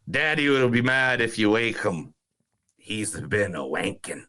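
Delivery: a light Irish lilt on the film quote; Irish accent. Retold or imitated. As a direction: read the line like an Irish villager. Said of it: "Thank you for the Irish accent".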